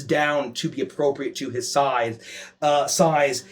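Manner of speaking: steady descriptive narration over music; game master scene setting. Acted. Game master setting the scene for the players, measured narration. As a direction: paint the hellscape for the party.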